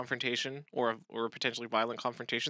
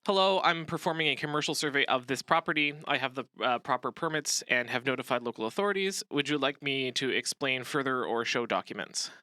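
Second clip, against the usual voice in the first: calm, professional. Shown as a demonstration. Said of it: "A better response could be something like".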